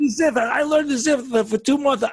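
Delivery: gasping through the story; out of breath. Real, not acted. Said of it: "I'm out of breath".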